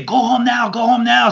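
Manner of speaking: high, urgent order to leave; a touch of a pushy referee. Retold or imitated. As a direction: shoo the wrestlers out fast.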